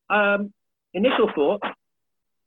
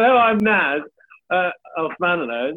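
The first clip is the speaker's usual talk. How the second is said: a louder, brighter mock introduction of himself, with the surname drawn out slowly; imitating himself on stage; 2 semitones higher, 5 dB louder, slower than usual. Comedian acting out introducing himself at a gig in Turkey. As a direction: act out the gig intro, stretching out Osmanlı. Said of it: "And then".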